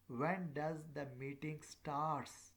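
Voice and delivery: slow question lifting toward STARTS; rising question intonation. Shown as a demonstration. Teacher showing students how questions go up, rising intonation. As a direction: pitch climbs up to a drawn-out "starts". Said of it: "tends to go up".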